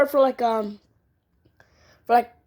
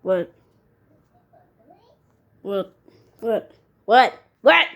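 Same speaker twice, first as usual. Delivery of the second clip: building what; 5 semitones lower, slower than usual. Acted. Repeated question, building up.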